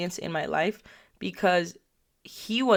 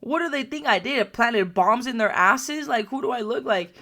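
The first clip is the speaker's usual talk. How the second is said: higher-pitched, incredulous protest; mock indignation; 4 semitones higher than usual. Storyteller complains about the whole school being evacuated, indignant. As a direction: protest in exaggerated disbelief.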